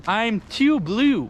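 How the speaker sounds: slow stretched mock croon; stretched, sing-song I'm too blue; slow drawn-out. Shown as a demonstration. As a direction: drag out too blue lazily.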